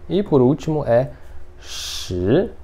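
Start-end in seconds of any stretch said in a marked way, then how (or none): 1.6-2.5 Mandarin rising tone on "shi"; second tone. Shown as a demonstration. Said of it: "Esse é o segundo tom".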